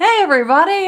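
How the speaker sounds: very high, loud, corny, cheesy show-host voice. Host describing her usual episode intro, doing her mock cheesy host greeting. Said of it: "I sound so cheesy".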